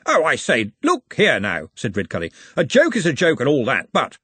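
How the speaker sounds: put-on loud, flustered old gentleman; blustering protest. Redcully protests.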